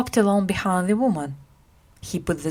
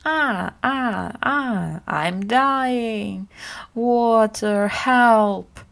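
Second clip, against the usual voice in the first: crying out; 3 semitones higher, much slower than usual. Acted. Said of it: "began to cry out".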